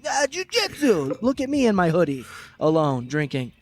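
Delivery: hammed-up know-it-all impression; mocking the heckler. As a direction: sneer it out as the smug drunk. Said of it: "And you're like".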